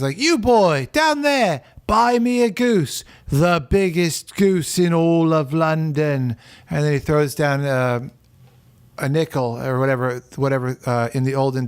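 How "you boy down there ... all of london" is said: Scrooged rich man shouting. Retold or imitated. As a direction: bellow the order from the window, pompous. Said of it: "the guy's always like".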